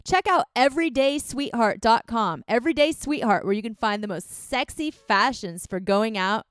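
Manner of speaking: punchy podcast sponsor read; lively promo plug with emphatic website name. Acted. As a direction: pitch it straight to the listeners, slowing to spell out the code. Reads a sponsor ad.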